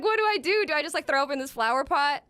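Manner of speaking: frantic hungover panic. Retold or imitated. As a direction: blurt it out in a high rush. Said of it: "So I'm like".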